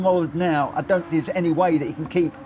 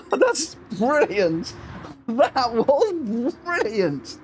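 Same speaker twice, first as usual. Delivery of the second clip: slow, higher, drawn-out praise through laughter; overcome with delight; 4 semitones higher, much slower than usual. Real, not acted. Commentator praising the finish, overcome with delight. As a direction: savour it, stretched out in giddy amazement.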